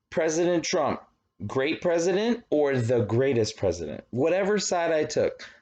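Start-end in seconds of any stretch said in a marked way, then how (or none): 0.1-4.0 higher, gushing question steering toward greatest; loaded poll question. Shown as a demonstration. Teacher acting a biased pollster, slanted in favour. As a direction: pitch it up and sell the praise. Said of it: "Or if I said".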